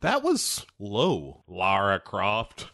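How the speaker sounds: slow, mock-wounded reproach; understated wounded act, slowly spoken; genuinely hurt. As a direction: play hurt, drawing each word out. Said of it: "he looks genuinely hurt".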